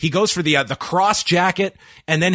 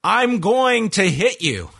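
slow, raised-pitch mock scream; retold scream; 6 semitones higher, slower than usual. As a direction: imitate a wrestler's drawn-out yell without real volume. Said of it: "and then screamed".

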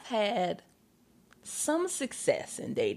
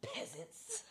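snooty scoff; 13 semitones higher, 18 dB quieter than usual. Pretend. Mocking snob dismissing apps.

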